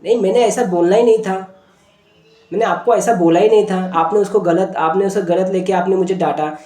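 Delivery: lightly acted protest; defensive child. Boy protesting to his sister who scolded him, mildly indignant. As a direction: insist you have been misunderstood. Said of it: "तो वो defined कर रहा था".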